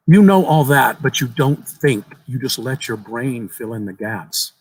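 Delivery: put-on smug little child; precocious knowing boy. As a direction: correct the grown-up, amused. Boy's precocious amusement.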